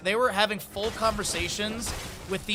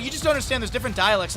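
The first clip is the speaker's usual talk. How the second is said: higher, mocking neighbor voice; mock defensive neighbors; 5 semitones higher, 3 dB louder, faster than usual. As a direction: imitate their huffy insistence, pitched up. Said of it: "They were like".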